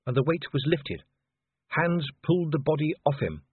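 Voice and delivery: plain reading voice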